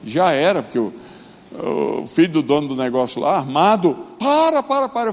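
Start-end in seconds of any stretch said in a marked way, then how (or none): 4.2-5.1 high urgent shouted stop; retold shout. Drug boss's son yelling across the favela meeting to stop. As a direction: cry out over and over to make him stop.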